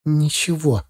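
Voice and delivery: understated, withdrawn reply; mildly closed-off, eyes down; evasive answer. A narrator's reading. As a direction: brush the question off without engaging. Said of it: "ответила она, не поднимая глаз".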